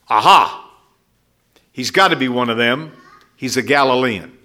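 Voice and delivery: a hint of a triumphant accuser, sharp "Aha"; gotcha accuser. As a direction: lightly play the accuser catching him out. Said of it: "the third accuser says".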